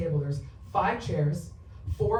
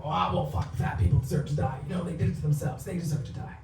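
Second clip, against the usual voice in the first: callous online commenters. Retold or imitated. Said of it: "And people online".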